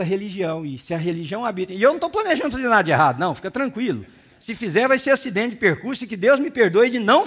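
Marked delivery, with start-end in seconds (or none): none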